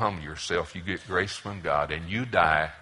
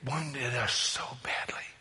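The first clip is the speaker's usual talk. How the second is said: mock self-pity; 4 semitones higher, 3 dB quieter, slower than usual.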